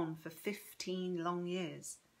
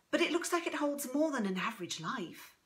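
lightly voiced granddaughter, a little higher; lightly higher voice, tentative request; Chrissy, tentative; 5 semitones higher than usual. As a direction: ask gently, with polite curiosity.

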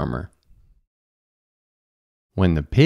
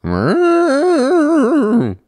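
high, loud drawn-out moo; cow mooing; 6 dB louder than usual. A narrator's reading. Cow calling the sleeping farmer, mooing. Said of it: "the cow said".

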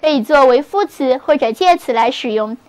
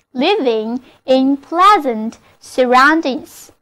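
repeated model reading. Shown as a demonstration. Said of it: "那么就可以说成".

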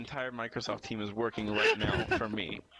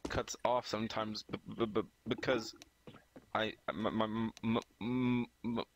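stammering over every first sound; stuck repeating the first letters; fake stutter; 3 dB quieter than usual. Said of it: "fake stutter".

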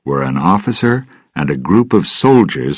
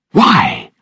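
louder, indignant question; angry; 3 semitones higher, 5 dB louder than usual. Acted. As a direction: demand an answer angrily. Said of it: "Elizabeth asked angrily".

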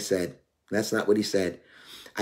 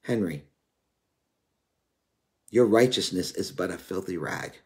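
softer, lower stern rebuke; voice of God; 5 semitones lower, 4 dB quieter than usual. Retold or imitated. God rebuking the young minister, low and soft. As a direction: deliver God's rebuke low and grave. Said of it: "you know what he said to me?".

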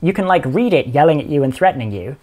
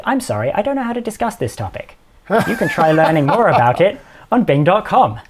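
a touch higher, mock-polite chatbot voice; canned chatbot reply; 5 semitones higher than usual. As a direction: lightly play a cheerful, scripted assistant. Chatbot's canned replacement message.

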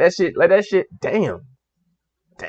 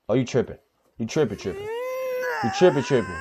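laughing hard; 5 semitones lower, 11 dB quieter than usual. Real, not acted.

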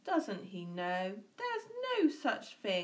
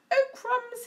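high, loud dismay; alarmed snake; 9 dB louder than usual. A narrator's reading. Snake seeing the Gruffalo, loud dismay. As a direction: yelp it like a scared snake. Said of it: "he said".

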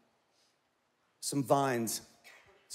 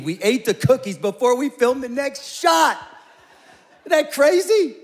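much higher and louder, laughing at the wonder; amazed storyteller; 8 semitones higher, 8 dB louder than usual. Retold or imitated. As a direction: gush it, can you believe it. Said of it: "he goes".

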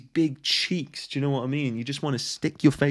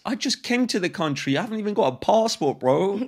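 hammed-up outrage as a clueless foreigner; mock confused newcomer; 6 semitones higher, 4 dB louder than usual. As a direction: voice pitched higher and louder, playing a baffled new arrival. Acting bewildered newcomer.

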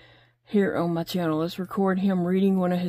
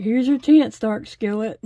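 punchy, louder dare on chance; egging him on with a loud jab; playful louder tease that drops off at the name; teasing call-out; 3 semitones higher, 5 dB louder than usual. Retold or imitated. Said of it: "Dakota's like".

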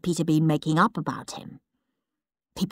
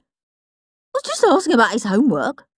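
innocent protest; 4 semitones higher than usual. Acted. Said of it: "protested Henry innocently".

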